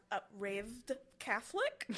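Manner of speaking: correcting the lisped Catholic; clear retry. Real, not acted. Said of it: "I just had a lisp there for a second".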